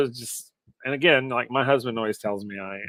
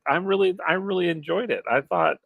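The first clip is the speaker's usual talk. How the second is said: normal talking voice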